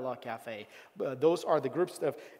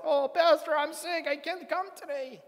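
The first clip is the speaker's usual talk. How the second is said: lightly mimicked sick caller; 11 semitones higher than usual. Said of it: "called and said".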